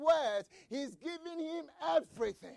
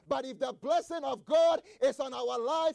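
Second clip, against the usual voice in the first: preaching build; 3 semitones higher, 6 dB louder than usual. Acted. Preacher building to a climax for the church, loud. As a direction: build to a shout.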